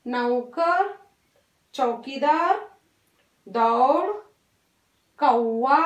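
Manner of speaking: each औ word said alone, clearly, with pauses; teacher reads the words for children to repeat; repeat-after-me reading. Shown as a demonstration. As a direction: read the list for the class to echo. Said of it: "मेरे साथ repeat कीजिए".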